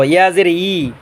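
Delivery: "ইয়া জের ই" with Y from mid-tongue and mid-palate. Shown as a demonstration. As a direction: glide into a long "yi" in "ইয়া জের ই". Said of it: "তালুর মাঝখান থেকে উচ্চারণ".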